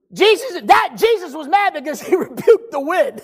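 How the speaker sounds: high-pitched, emphatic preacher's delivery; punchy exclamations to a congregation; full-force preaching. Acted. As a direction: preach it hard, leaving big pauses.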